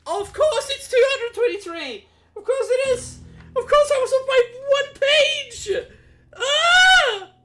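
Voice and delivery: high, loud wail of frustration; loud, laughing despair at yourself; exasperated outburst. Real, not acted. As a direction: cry out in real exasperation, ending in a yell. Exasperated at finding the missed page.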